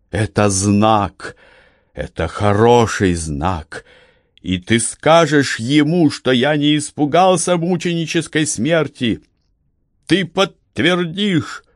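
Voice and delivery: put-on rising, fervent old man; a martyr sure of his sign; exalted Cornelius. A narrator's reading. (восторженный голос Корнелиуса)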